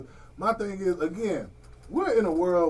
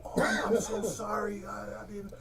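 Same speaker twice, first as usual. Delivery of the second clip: softer and softer, fading sheepish sorry; mock apology; 10 dB quieter than usual. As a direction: mimic a caught person shrinking away. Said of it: "they be like".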